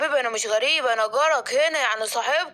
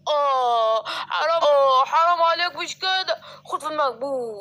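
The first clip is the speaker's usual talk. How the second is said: crying in pain. Acted. The elephant, beaten by Scar, cries and begs him to stop.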